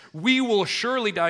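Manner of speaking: loud, high cry of dread; Manoah's dread. Acted. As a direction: cry out that death is certain. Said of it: "Manoah says".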